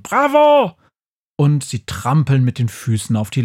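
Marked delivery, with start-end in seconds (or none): 0.0-0.8 very high, loud rat cheer; shouting bravo. Acted. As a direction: cheer it out like a crowd of rats. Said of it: "sie schreien".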